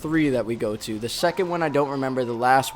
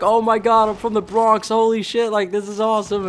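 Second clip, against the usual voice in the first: excited fan; 6 semitones higher than usual. Retold or imitated. Thrilled to meet Brooklyn people.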